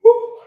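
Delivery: loud high yawn; big yawn. Real, not acted. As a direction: stretch out a noisy yawn. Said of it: "Me and my yawning".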